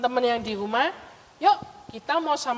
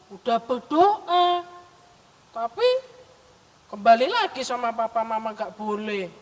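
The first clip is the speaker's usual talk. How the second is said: grumbling. Acted. Memo complaining to a friend about mama and papa, grumbling. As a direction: grumble about what you were refused. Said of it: "kok ngedumel, kok ngomel-ngomel".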